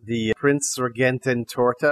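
Prince Regenten Torte sounded out slowly as German; slow, careful attempt at German Regenten Torte; careful German pronunciation. Shown as a demonstration. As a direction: read Regenten Torte carefully from a phonetic note. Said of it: "I wrote down a phonetic pronunciation".

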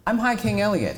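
high, loud royal announcement; mock regal decree; grand proclamation. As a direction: proclaim your title grandly. Elliot proclaims himself grandly.

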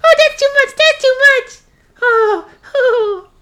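high, loud laughing protest; tickled laughing. Acted. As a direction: squeal like you're tickled. Puppet being tickled.

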